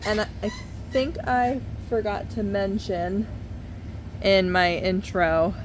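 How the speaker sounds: distant, roomy room sound; talking away from the microphone; far from mic. Real, not acted. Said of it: "sorry if I sound far away sometimes".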